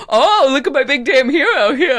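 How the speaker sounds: high, laughing drag queen sass; depressive drag queen. Retold or imitated. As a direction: camp it up, laughing. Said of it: "depressive drag queen voice".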